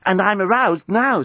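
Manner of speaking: alien journalist voice. Acted. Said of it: "said the journalist".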